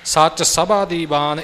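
ਸੱਚ ਸਭਾ ਦੀਵਾਨ with a loose, undoubled ਭ; soft pronunciation. Shown as a demonstration. Teacher correcting learners, soft pronunciation of ਸਭਾ. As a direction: say ਸਭਾ lightly, never pressing its middle. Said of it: "ਇਹ ਪੋਲਾ ਉਚਾਰਨ ਕਰਨਾ ਹੈ".

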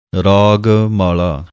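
ਮਾਲਾ said softly and lightly, not stressed, slowly; soft mala. Shown as a demonstration. Teacher shows students the soft ਮਾਲਾ. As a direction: keep ਮਾਲਾ soft and loose. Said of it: "ਪੋਲਾ ਜਿਹਾ ਉਚਾਰਨ ਹੈ ਮਾਲਾ".

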